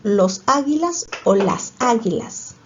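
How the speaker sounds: slow "¿Los águilas o las águilas?" weighing both; slow choice question. Shown as a demonstration. Teacher quizzing pupils on the plural, slow and deliberate. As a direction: lay out both options slowly for the class.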